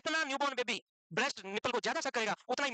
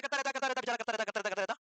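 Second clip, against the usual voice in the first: droning repetition; 2 semitones lower than usual. Shown as a demonstration. Teacher showing students a suitor's endless persistence, droning repetition. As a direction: chant it on and on in one unbroken run.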